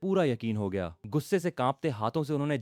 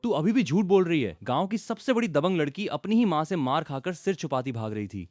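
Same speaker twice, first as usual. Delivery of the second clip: angry mother; 5 semitones higher, 3 dB louder than usual. Acted. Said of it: "और भड़क गईं".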